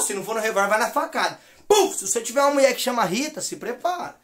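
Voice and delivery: normal talking voice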